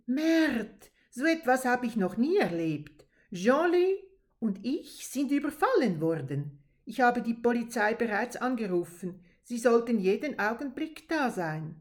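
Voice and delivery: agitated. Acted. Madeleine reports being robbed.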